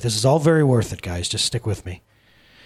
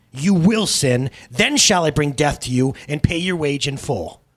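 hissed; 5 semitones higher, 4 dB louder than usual. Acted. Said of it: "hissed Sin".

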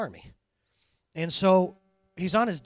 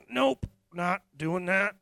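drawn-out flat refusal; a lightly voiced balking donkey; slow, stubborn donkey; 2 semitones higher, much slower than usual. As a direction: dig in and refuse, slowly. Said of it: "and he's like".

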